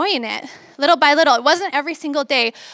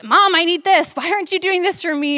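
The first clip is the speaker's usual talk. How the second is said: frustrated demand; 4 semitones higher than usual. Retold or imitated. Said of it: "getting frustrated or angry".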